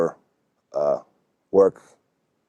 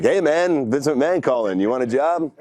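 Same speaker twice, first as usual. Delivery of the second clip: much higher, goofy mock-excited buddy voice; buddy pulling a prank; 7 semitones higher than usual. Friend pranking him as Vince calling, goofy and high. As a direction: ham it up like a friend faking a big call. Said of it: "one of my buddies going like".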